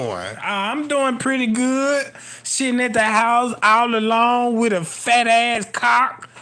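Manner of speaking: slow, mock seductive voice; Miss Teresa voice. Miss Teresa inviting him over, slow mock seductive. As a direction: drawl it out like a come-on.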